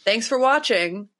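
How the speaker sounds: slow, sarcastic thank-you; mock polite thanks. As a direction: drawl out a fake thank-you. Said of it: "But in this case".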